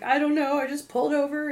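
high, loud, flustered answer; panicked. Retold or imitated. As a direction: blurt it out in a panic. Distressed driver on the phone.

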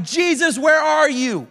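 half-shouted desperate plea, slowing down; crying out. Retold or imitated. Disciples in the storm calling for Jesus, pleading cry. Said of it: "they're crying out like".

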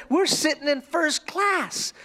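slow, high, proud announcement; excited little girl. Retold or imitated. Little girl telling a fellow passenger, excited. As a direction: imitate a thrilled small child. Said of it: "she's so excited".

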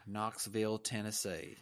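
bad Southern accent. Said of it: "How was my Southern accent?".

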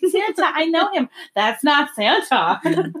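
lightly voiced Elf, drawn out. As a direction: echo the line as a wide-eyed Elf. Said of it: "You sound like Elf".

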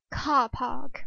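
put-on a failed stab at a British accent on car park; mock British accent, barely landing; botched British accent, light and brief; terrible British accent. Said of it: "that was a terrible British accent".

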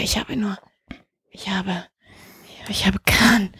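tonlos und leise geflüstert; nervös vor sich hin flüstern; flüsternd. Real, not acted. Sucht leise nach Waffe. (sie flüstert nervös, während sie nach etwas sucht)

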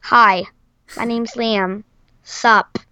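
low, laid-back mock-casual voice. Shown as a demonstration. Child shows how they usually talk, low and casual. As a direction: drop it low and offhand. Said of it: "I just usually talk like".

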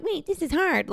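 high, laughing mock alarm; laughing realization. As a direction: laugh it out in sudden surprise. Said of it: "And I'm like".

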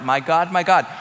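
high, loud anguished cry to God. Retold or imitated. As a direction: cry it out as a dying man's plea. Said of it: "He cried out".

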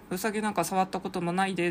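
a mild, lightly voiced Osaka dialect line. Quoting the bear's final line from the Japanese book in light Osaka dialect. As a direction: say it in a gentle touch of Osaka dialect. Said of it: "ちょっと大阪弁で終わっています".

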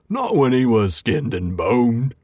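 slow, dismissive troll voice; a full troll unimpressed by the snack; troll William. Acted. William after a fine supper, slow dismissive troll voice. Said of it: "troll continuing".

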